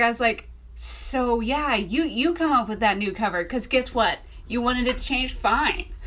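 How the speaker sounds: mildly sassy challenge, emphatic; sassing God. Retold or imitated. Author retelling her talk back to God over the cover, mildly sassy. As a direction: hand it back to God with a touch of sass. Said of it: "it's great to sass God".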